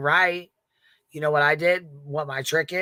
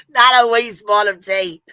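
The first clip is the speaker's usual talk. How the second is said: mock shout; 6 semitones higher, 10 dB louder than usual. Mock outburst in British bit.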